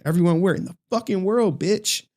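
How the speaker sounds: hyped boast. Real, not acted. Streamer bragging to chat about the world ranking, hyped. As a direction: crow about it, laughing at himself. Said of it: "hyping his own third place".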